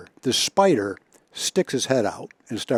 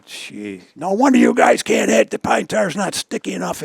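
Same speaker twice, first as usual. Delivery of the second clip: sarcastic jab; 9 semitones higher than usual. Retold or imitated. Ted mocking the old hitters over the pine tar, high sarcastic jab. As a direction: needle the hitters with mock pity. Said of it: "He goes".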